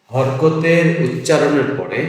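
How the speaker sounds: stretched out, word by word; slow, careful teacher dictation. Shown as a demonstration. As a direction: spell it out slowly for the class. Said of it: "লিখে রাখছি".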